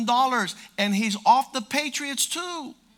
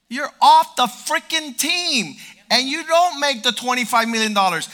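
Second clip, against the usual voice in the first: coach yelling; 4 semitones higher, 8 dB louder than usual. Retold or imitated. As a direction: bark the firing at him. Coach firing the player, shouted.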